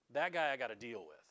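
a hint of a weary Roman official; Pilate's voice. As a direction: mutter it like a pragmatic governor. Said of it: "says Pontius Pilate".

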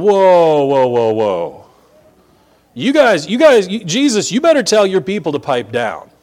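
loud, high, flustered objection; alarmed Pharisees. Acted. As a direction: break in to shut the cheering down. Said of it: "the Pharisees are going".

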